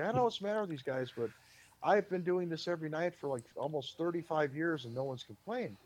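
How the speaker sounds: half-hearted Gallagher impression, fast; attempted Gallagher voice. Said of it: "I can't imitate his voice".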